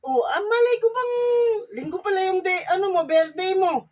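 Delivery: half-crying loud protest; whiny crying complaint. Acted. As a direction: wail it like a wounded friend. Friend protests he missed birthday.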